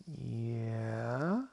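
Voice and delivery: drawn-out, unsure yeah; hesitant boy. Acted. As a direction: stretch it out and lift it into a question. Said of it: "And Jordan goes".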